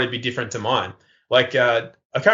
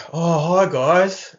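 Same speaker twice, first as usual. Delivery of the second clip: higher, naive friendly hello; feigned innocence, pitched up; mock-innocent greeting; 5 semitones higher, much slower than usual. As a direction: act cheerfully oblivious to trouble. Playing innocent with police, retold.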